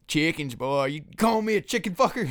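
mock outrage in country accent; country movie character. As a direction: rise into a high indignant holler. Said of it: "what movie is that?".

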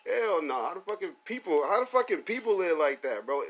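can't believe it, pitch way up; stretched-out hell no in disbelief; outraged disbelief. Real, not acted. Outraged disbelief at court ruling.

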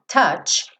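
"touch" ending sharply in tch, no vowel after. Shown as a demonstration. Teacher warns students about the final sound. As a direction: close "touch" on a bare tch. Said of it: "e não tem vogal aí".

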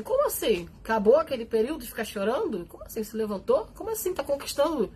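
rising, incredulous "Como assim?"; mock indignant disbelief. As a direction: play the resentful onlooker, aghast. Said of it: "vai falar assim". (espanto indignado e debochado)

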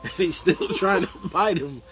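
talking through laughter; laughing while talking. Real, not acted. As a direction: tell it while cracking up. Laughing while telling wolf story.

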